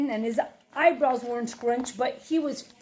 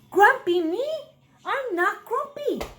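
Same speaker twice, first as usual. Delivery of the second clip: indignant denial; 8 semitones higher, 3 dB louder than usual. Acted. Jim denies again, indignant.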